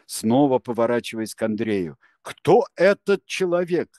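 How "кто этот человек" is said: high, loud challenging question; shouted at Andrey; sharp demand. A narrator's reading. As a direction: demand to know who he is. Confrontation in the office.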